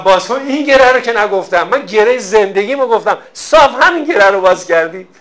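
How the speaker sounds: hammed-up furious peasant scolding heaven; mild mock rage at God. Poor farmer scolds God over his spilled wheat, loud mock fury. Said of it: "خیلی کفری شد".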